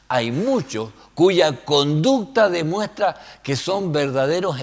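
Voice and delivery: declaimed verse, starting high and lively; scripture reading. Acted. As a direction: read the verse out with preacher's force. Reads scripture in another translation.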